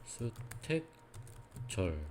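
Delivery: 한 글자씩 느리게. Shown as a demonstration. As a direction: read "수택절" slowly, syllable by syllable. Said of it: "이렇게 읽었어요". (또박또박 느리게 읽는 시범)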